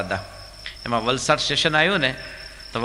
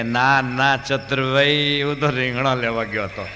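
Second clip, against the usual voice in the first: louder, drawn-out sung name then a laughing reply; loud deaf reply; slower than usual. Retold or imitated. Jasbhai shouts back his mistaken answer, louder. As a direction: call back loudly, half singing. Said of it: "હંમેશા જોરથી જ બોલવાનું".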